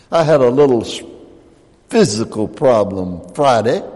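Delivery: normal talking voice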